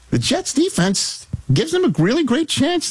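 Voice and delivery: big high-pitched prediction; mock bold take in a high voice. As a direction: send the pitch way up. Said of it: "still gotta go higher register".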